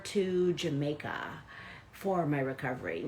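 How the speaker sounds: understated mock-earnest athlete quote; quietly mock a cautious backup planner; great sarcasm. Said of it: "I say this with great sarcasm".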